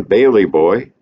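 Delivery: a mild mock tragic call; hint of a grandmother's tragic cry. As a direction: call out the son's name, lightly tragic. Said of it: "She called in her tragic voice".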